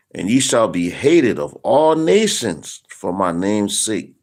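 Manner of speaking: slow, weighty Bible reading; scripture reading. Acted. Preacher reading the prophecy to viewers, slow and weighty. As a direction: lean into every word of the verse. Rereads the same verse.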